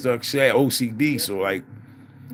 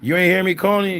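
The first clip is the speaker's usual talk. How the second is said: imitating the wife; 9 semitones higher, 4 dB louder than usual. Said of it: "And they like".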